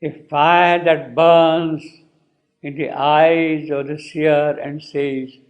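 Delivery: slow, sustained poetry recitation; quoted verse. Acted. Teacher quoting the poet's earlier line, slow recitation. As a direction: draw out each stressed word of the verse. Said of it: "he has said earlier".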